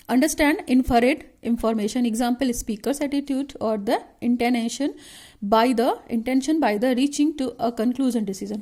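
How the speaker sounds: reads the point out slowly, word by word; slow dictation. Shown as a demonstration. Teacher dictating a syllabus point to students, slow and measured.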